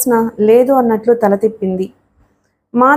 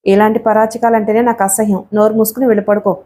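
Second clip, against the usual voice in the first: irritated snap. Acted. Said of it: "అంది కోపంగా".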